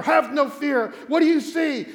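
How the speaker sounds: loud acted king. King questions the frightened medium, loud and urgent. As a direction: call it out urgently, as a king in a play.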